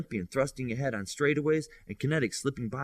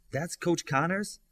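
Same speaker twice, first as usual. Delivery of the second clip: slower, higher, caught off guard; surprised; 7 semitones higher, slower than usual. A narrator's reading. Girl surprised to learn who the visitor is, asking it slowly. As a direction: ask it with real surprise at the name. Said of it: "she thought with surprise".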